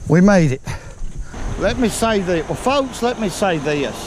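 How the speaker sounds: winded after climbing a steep bank; out of breath. Real, not acted. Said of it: "Yeah, I'm a little bit winded".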